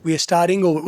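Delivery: "starting" with a clear G before "over"; final G sounded. Shown as a demonstration. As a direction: say "starting over" as "staring-gover". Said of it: "उसने जी बोला है".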